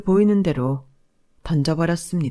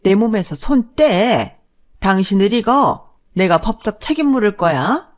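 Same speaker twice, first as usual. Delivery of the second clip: frantic protest; 4 semitones higher, 6 dB louder than usual. Acted. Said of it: "발악을 하기 시작하더군요".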